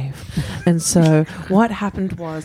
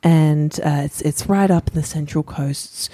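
storytelling voice. Acted. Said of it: "go into my storytelling voice".

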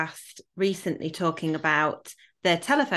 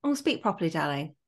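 correcting parent; 3 dB quieter, faster than usual. Retold or imitated. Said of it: "gone on to say to my kids frequently".

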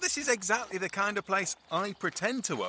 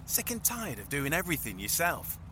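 bright sales pitch voiceover; advert read. Acted. Presenters pitching their errand service in a cheesy advert read. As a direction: sell it like a cheesy TV ad.

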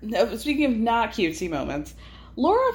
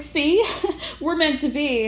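giggly quote; 5 semitones higher than usual. Retold or imitated. Laura giggling at Adam.

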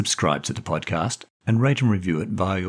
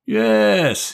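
high bright eager yes; beaming yes; 14 semitones higher, 6 dB louder than usual. Acted. Dick beaming back at his brother, bright high yes. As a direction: pop it out with a grin.

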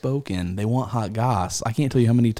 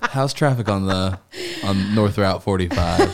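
radio host handoff. Pretend. Mock handoff to traffic report.

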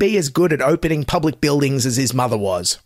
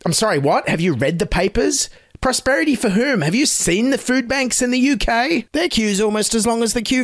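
higher, incredulous rhetorical jab; indignant disbelief; 6 semitones higher than usual. Real, not acted. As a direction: scoff in disbelief. Indignant rant at bishop.

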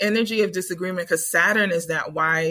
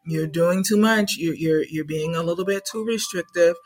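gentle wise ancestor. Retold or imitated. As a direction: soothe the squabbling kids. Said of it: "is asking us".

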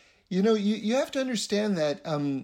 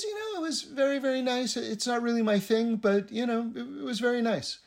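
a lightly voiced guest, raised higher and a bit hushed; politely hesitant guest; 5 semitones higher than usual. Guest telling the Rebbe's wife it wasn't his thing, higher and hesitant. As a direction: hedge your answer, higher pitched and polite.

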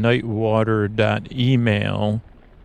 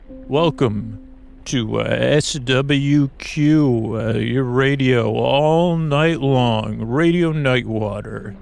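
slow, drawn-out radio announcer welcome; late-night radio host; slower than usual. Acted. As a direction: croon the station intro like a night DJ. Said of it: "and then you hear".

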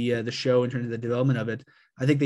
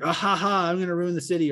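mustache twirling villain; 5 semitones higher than usual. Pretend. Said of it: "mustache twirling villain being like".

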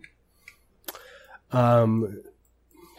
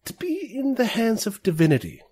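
slow, halting in-character confidence; leaning in to confide; 3 semitones higher, slower than usual. Acted. Woman leans in about metamorphosist folks, lightly voiced confiding. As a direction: share a distasteful rumour, picking words slowly. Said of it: "she leans in and she says".

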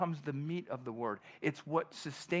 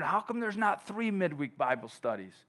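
mildly keen new convert, pitched up; raised, wondering questions; eagerly wondering; 4 semitones higher than usual. Acted. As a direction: ask like an eager new believer. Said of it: "they're wondering".

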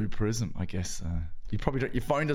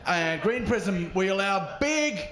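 higher, pompous rich tech boss voice; posh rich tech boss; 7 semitones higher than usual. Acted. Comedian opening his set, playing a smug rich tech boss. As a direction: brag like a smug millionaire. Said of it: "the way I chose to start my set".

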